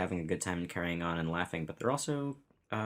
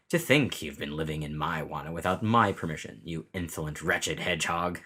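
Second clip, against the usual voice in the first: sneering villain. Acted. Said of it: "That's pretty good".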